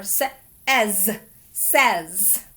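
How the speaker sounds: "sa-, as, says" built up; blending. Shown as a demonstration. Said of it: "make my z sound".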